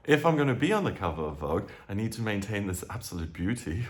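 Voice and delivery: fast, matter-of-fact planning; brisk businesslike voice; practical planning. Retold or imitated. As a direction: rattle it off like a to-do list. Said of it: "think in practical terms".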